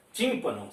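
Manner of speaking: Tímpano with a stronger tím; stress on antepenultimate syllable. Shown as a demonstration. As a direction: lean on the start of Tímpano. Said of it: "sílaba mais forte". (Tímpano com a primeira sílaba mais forte)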